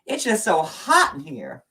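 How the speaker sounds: high-pitched hammed-up Southern accent. Calling to Cody for sweet tea, high Southern accent. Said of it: "My Southern accent is amazing".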